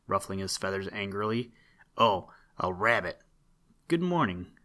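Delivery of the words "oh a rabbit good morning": lightly voiced hoarse duck; a hint of a hoarse duck. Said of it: "quacked the duck in his hoarse voice".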